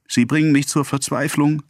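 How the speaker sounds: high-pitched plaintive cry; acted high wailing complaint; despairing wail. A narrator's reading. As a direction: lament it in desperation. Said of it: "jammerte sie".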